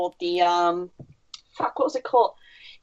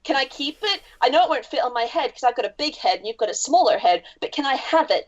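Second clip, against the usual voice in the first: mock pleading fan; 4 semitones higher than usual. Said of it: "I get increasingly more, like, crazy about it".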